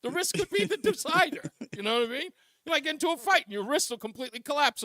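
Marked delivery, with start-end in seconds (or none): 0.0-1.4 much higher and fast, hamming up the bravado; excited joking boast. Real, not acted. Host defending his wrist worry to his co-host, excited mock bravado. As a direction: sell the fight logic with mock bravado.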